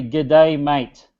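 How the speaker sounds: a light Australian accent on the greeting; casual Australian accent, lightly done; Aussie greeting. Shown as a demonstration. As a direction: say it like a friendly Aussie mate. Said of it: "in Aussie accent".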